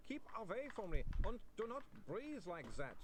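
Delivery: frightened vampire wailing at a fainting lady. A narrator's reading. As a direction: wail it out, backing away. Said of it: "Otto wailed".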